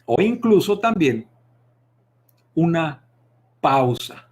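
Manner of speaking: long pauses before "pausa"; pause demo. Shown as a demonstration. Teacher demonstrating a dramatic pause before the key word. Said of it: "poner énfasis en algo".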